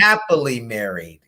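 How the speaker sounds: emphasis landing on happily; stress on happily. Shown as a demonstration. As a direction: hit the word happily with weight. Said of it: "put that emphasis on it".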